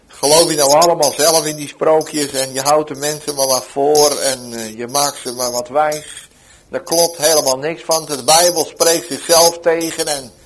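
mock scolding at the market stall; retold tirade against the Bible preacher; angry scolding. Hostile man scolds the Bible seller, mildly angry. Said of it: "kreeg ik een scheldserenade van deze man".

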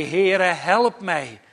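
lightly voiced plea for help, drawn out; understated imitation of calling out in need; mild retold cry. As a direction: slowly echo a cry to the Lord, restrained. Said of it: "dan roept hij".

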